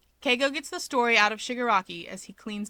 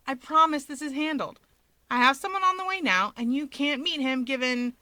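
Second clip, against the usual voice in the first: higher, louder, pressing reassurance; insistent Keigo; 5 semitones higher, 4 dB louder than usual. A narrator's reading. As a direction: firmly promise it's handled.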